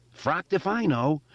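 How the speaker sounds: high, reckless yell. Acted. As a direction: yell it while charging. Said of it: "Richie yelled".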